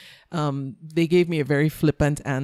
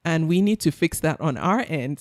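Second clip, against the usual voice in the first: much higher, hurried reassurance; reassuring director; 5 semitones higher than usual. Retold or imitated. Director reassuring the upset customer, lightly voiced. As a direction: soothe her quickly, mock voice. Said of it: "And he was like".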